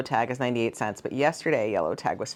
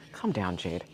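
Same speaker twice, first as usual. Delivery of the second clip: self-scolding; 7 semitones lower, 7 dB quieter than usual. Real, not acted. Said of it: "I get too excited about things".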